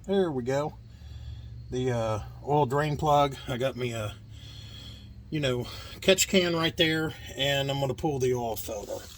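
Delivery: strained, muffled voice from under a truck; talking while lying on your back; lying under a car. Real, not acted. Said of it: "laying under the truck".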